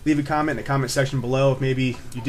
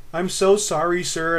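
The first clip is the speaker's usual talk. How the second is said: higher, pleading mock-scared apology; put-on shaking apology; 5 semitones higher, slower than usual. Driver begging cop's pardon, feigned trembling. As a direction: act pitiful to get off the hook. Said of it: "trying to, like, shake a little bit".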